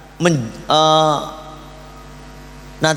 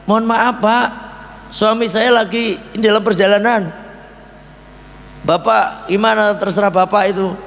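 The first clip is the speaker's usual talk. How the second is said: higher, polite apologetic housewife voice; a hint of a courteous wife turning a guest away; 5 semitones higher than usual. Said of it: "Kata istrinya bilang".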